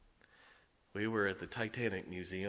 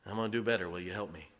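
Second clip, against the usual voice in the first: humble apology; 2 semitones lower than usual. Retold or imitated. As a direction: gently ask forgiveness. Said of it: "go back to my kids individually and say".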